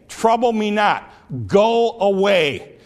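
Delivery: grumpy from bed. Retold or imitated. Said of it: "That's what he was saying".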